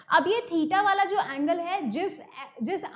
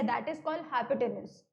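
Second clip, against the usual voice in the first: slow term; 3 semitones lower, 5 dB quieter, much slower than usual. Shown as a demonstration. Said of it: "teacher names key term".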